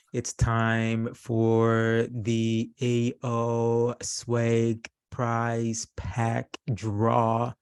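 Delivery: drawn-out game show announcer; hyped giveaway announcement. Real, not acted. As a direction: stretch it out like a prize reveal. Host announcing the prize draw.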